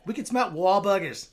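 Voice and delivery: drawn-out mock Boston accent; hammed-up Boston, R dropped in "smart". Shown as a demonstration. Performer trying out Boston talk, mock accent. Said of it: "Do a Boston accent".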